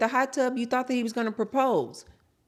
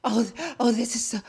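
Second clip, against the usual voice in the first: breaking off as if short of air; mock breathiness; mimicked breathless storyteller; 2 semitones higher than usual. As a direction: imitate her breathy, halting gush. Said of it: "why is she talking like this?".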